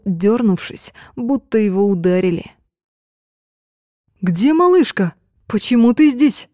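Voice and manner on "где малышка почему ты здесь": high, urgent worried questions; sudden panic in the voice; alarmed questions. Acted. Friend alarmed at the news. (встревоженно)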